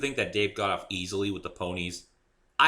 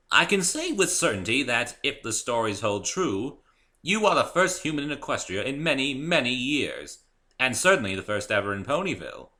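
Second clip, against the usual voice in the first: higher, louder, formal mayor voice; a mayor formally addressing the newcomer; stately mayor; 6 semitones higher, 6 dB louder than usual. A narrator's reading. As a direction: deliver it like an official pronouncement. Mayor gives formal speech.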